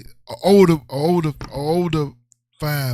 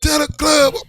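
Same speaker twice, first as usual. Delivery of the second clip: higher-pitched mock brag; hammed-up boasting; 6 semitones higher, 4 dB louder than usual. Taunting the kid about his mama, hammed-up boast. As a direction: crow it to wind someone up.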